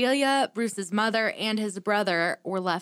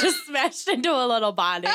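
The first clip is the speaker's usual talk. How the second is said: laughing quote; 3 semitones higher than usual. Retold or imitated. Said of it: "I was like".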